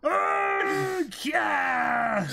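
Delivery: high, loud cheer; a high, loud whoop of glee; gleeful shout. Acted. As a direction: yell out in delight. Cheering the explosion.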